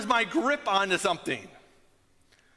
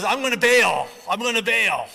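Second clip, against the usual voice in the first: panicked driver; 6 dB louder than usual. Retold or imitated. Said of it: "and he goes".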